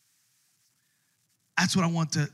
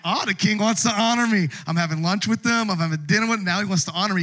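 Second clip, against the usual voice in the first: a touch louder, higher smug delight; mild hammed-up conceit; egotistical gloating; 4 semitones higher, 5 dB louder than usual. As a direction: gloat like a narcissist. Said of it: "here's what egotistical, narcissistic people do".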